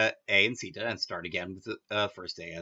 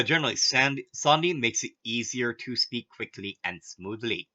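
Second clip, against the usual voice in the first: said again for emphasis. Shown as a demonstration. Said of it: "we will say it twice".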